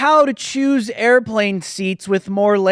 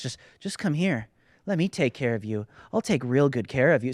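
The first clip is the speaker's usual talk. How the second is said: low, quiet, creepy mock predator; 7 semitones lower, 5 dB quieter than usual. Host mocking groomers in a low, creepy, quiet voice. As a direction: croon like a sinister groomer luring a child. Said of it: "you hear me talk like that, like, dude, you sound like a freak weirdo".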